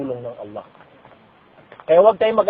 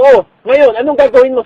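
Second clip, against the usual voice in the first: mocking Pharaoh; 5 semitones higher, 7 dB louder than usual. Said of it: "Sabi ni Parao".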